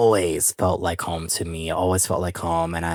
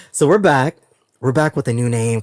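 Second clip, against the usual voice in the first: higher and louder, thrilled; excited announcement; 5 semitones higher, 5 dB louder than usual. Real, not acted. Host telling listeners the podcast returns, excited. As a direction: burst out with the good news.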